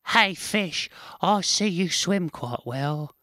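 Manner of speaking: high, loud squirrel voice, slow and mocking; sneering squirrel. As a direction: drag out the taunt like a smug squirrel. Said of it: "he sneered".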